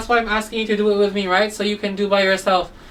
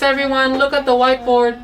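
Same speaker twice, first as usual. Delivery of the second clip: ordinary delivery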